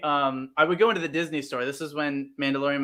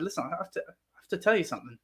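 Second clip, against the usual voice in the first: hushed confession; 7 dB quieter, faster than usual. Retold or imitated. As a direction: lean in and confess quietly, a bit fast. Confessing to her on train.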